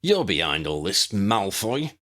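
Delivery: snarl. Acted. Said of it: "Ron snarled".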